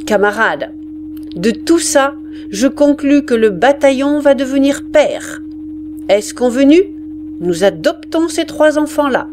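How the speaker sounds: the sergeant proclaims the adoption. Acted. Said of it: "Il éleva la voix". (le sergent élève la voix)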